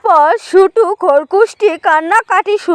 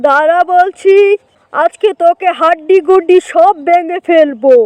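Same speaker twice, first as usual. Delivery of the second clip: mildly angry uncle. Acted. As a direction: play an uncle confronting the wicked jackal.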